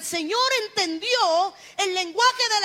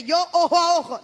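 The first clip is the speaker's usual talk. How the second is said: laughing mock; 5 dB louder than usual. Mocking congregant's claim, laughing.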